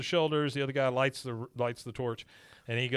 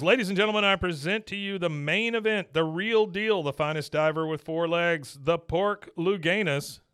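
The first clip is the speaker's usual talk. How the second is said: higher, louder showman intro, slowing at the end; imitating a showman announcer; 4 semitones higher, 3 dB louder than usual. Announcer presents the diving pig to the crowd, high and loud. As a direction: hype up the crowd like a ringmaster. Announcer voiced in a retold episode.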